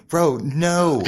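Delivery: loud, high incredulous no; emphatic denial. Retold or imitated. Model sets the driver straight, emphatic denial. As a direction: push back loudly and high.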